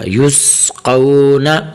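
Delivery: slow "یس قو نا" with a sounded s and thick "قو"; full, heavy "قو", drawn out slowly; heavy qaf. Shown as a demonstration. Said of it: "سین کی آواز نکالنی ہے اور یہاں قاف کو موٹا کرنا ہے".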